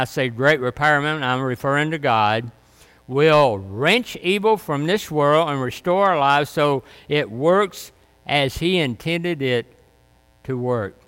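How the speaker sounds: usual speaking voice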